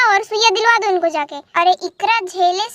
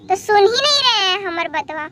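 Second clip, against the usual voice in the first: mock crying. Wife complains husband won't listen.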